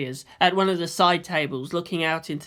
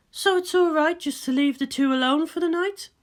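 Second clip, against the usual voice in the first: higher, teasing woman's voice; a cool scientist ribbing her friend; Ritsuko's voice; 11 semitones higher than usual. Acted. Ritsuko teasing Misato at the cafeteria table, higher voice.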